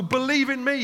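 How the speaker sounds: preacher voicing Jesus calling people to believe; loud proclamation as Jesus. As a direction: cry it out like Jesus calling a festival crowd. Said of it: "he says".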